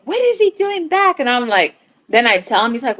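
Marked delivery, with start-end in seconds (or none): 0.0-1.2 husband's confusion. Retold or imitated. Husband finds returned cat.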